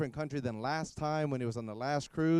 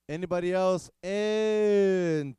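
laughing; 5 semitones higher, 6 dB louder, much slower than usual. Real, not acted. Laughing while calling for counts.

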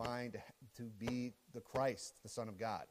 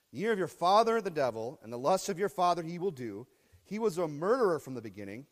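thundering preaching; 2 semitones higher, 8 dB louder than usual. Acted. Preacher voices Jesus forcefully.

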